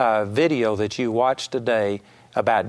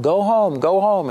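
coaxing dog; 6 semitones higher, 3 dB louder than usual. Retold or imitated. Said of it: "she kept telling this dog".

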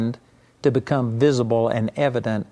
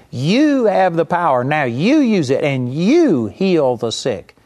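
slow, emphatic preaching of Jesus' words; voicing Jesus; 2 semitones higher than usual. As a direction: proclaim it slowly, weighing each word.

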